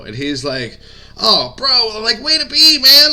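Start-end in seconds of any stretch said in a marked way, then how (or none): 1.2-3.1 imitating a Southern redneck twang, pitched much higher and louder; Chris's redneck twang. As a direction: play the excited buddy in a high, loud redneck twang. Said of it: "he's got a kind of a redneck twang to his voice".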